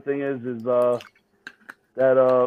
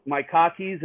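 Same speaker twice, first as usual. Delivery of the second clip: Boston accent; slower than usual. Shown as a demonstration. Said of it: "every time I pronounce my R's".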